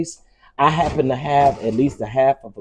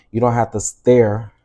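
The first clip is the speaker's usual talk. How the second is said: country-accented "stir", vowel sounding like "stair". Real, not acted. Cook slipping while giving instructions, country accent on "stir". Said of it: "My country accent coming out".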